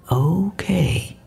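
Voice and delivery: mild, careful acceptance; gently. A narrator's reading. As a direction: concede gently. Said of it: "Teddy said gently".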